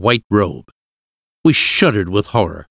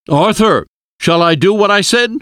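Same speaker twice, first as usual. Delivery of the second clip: high, urgent raised-voice question; shouted; 10 semitones higher, 4 dB louder than usual. A narrator's reading. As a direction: call out for an instant decision. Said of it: "Van Helsing shouted".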